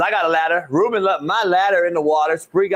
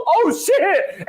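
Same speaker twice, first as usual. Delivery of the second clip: put-on startled drunk cry; 11 semitones higher than usual. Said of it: "He goes".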